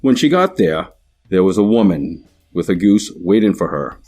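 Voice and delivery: story read aloud in a Boston accent. Shown as a demonstration. Demo speaker reads the sample story in Boston accent. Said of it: "Boston accent".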